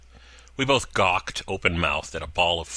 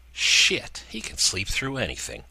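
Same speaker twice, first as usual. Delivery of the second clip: put-on annoyed girlfriend; 3 semitones higher than usual. Gina annoyed at Pitt.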